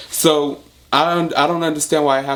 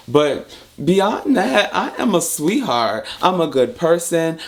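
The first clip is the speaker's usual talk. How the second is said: sweetheart turn; 3 semitones higher, slower than usual. Real, not acted. Turns sweet after threats.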